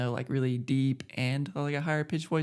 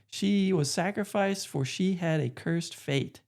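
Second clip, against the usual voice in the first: higher pleading voice; pleading young hero; 5 semitones higher, slower than usual. Retold or imitated. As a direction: beg like an earnest young hero. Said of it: "the Wander's like".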